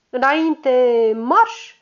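înainte marș, tare, cu înflăcărare; pornește patrula la atac; comandă milităroasă. Acted. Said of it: "comandă celor opt gardiști". (comandă militară)

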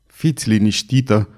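calm, composed reassurance; a measured, dignified assurance; with dignity. A narrator's reading. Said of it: "spuse Jean cu demnitate".

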